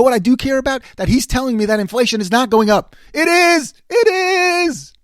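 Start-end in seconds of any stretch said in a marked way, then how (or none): 3.1-4.9 high, loud insistence; emphatic insistence. Real, not acted. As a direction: punch both words hard. Insisting inflation rises.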